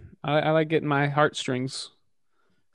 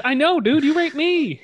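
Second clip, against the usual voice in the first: put-on squeaky kid voice; high-pitched little boy; 12 semitones higher, 3 dB louder than usual. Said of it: "He goes".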